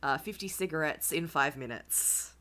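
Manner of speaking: hoarse, croaky voice; rough throat after a bad cold; smoker's rasp. Real, not acted. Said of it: "even though I sound like".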